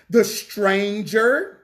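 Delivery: very slow, drawn-out verse reading. Real, not acted. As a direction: stretch each word out for the listeners. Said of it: "I'm gonna read this for y'all slow".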